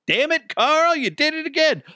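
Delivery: high, whiny mock coworker scolding. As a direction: whine at Carl like a coworker.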